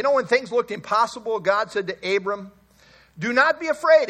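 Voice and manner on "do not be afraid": proclaimed. Acted. God's words, proclaimed.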